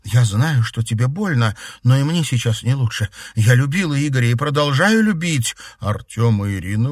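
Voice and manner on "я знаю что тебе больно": ordinary delivery, nothing marked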